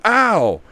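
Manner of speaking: short mock cry of pain. The man yelping in the tussle, a mild mock ow. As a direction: yelp it lightly. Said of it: "you hear the guy go".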